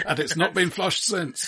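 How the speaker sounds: chuckling through a slow deadpan joke; laughing. Real, not acted. Host adds a joke about the toilet, laughing. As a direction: let the laugh spill over the words, slowly.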